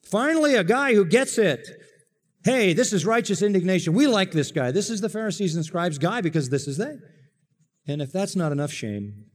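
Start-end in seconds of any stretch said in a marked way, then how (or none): 0.0-7.0 high, eager approval; gleeful Pharisees. Acted. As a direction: cheer him on like a smug insider. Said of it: "they would be saying".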